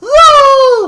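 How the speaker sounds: high loud gleeful gremlin cheer. Acted. Gremlin voice plays character.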